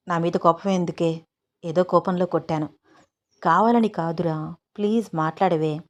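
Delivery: a slightly hushed, coaxing apology; understated, tender entreaty; gentle pleading. Acted. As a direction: plead softly with an offended wife. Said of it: "సీతని చాలా చాలా request చేసి".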